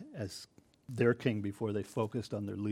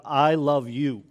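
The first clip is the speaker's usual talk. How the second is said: passionate love; 2 semitones higher, 6 dB louder, slower than usual. Retold or imitated. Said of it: "We see a lot of".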